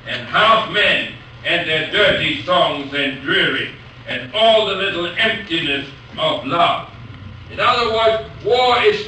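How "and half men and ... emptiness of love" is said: measured, declaiming verse reading; poem recital. Shown as a demonstration. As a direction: read it out as a proud declamation. Lecturer reads famous Brooke poem.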